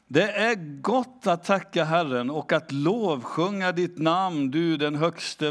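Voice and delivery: slow, measured Bible reading; scripture reading. Acted. Preacher reading a psalm to the congregation, slow and solemn. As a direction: read the verse with reverence.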